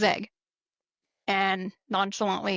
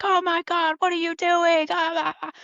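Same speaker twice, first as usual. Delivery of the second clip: much higher, louder teasing squeal; mock disbelief; 9 semitones higher, 4 dB louder than usual. Whole squad teasing the airman, high mock disbelief. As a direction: rib him like a shocked crowd. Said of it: "And everybody's like".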